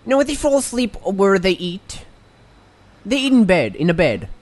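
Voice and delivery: odd put-on pitchman voice; character voice. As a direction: play a shady resort pitchman. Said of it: "Your voice is incredibly different now from when you started".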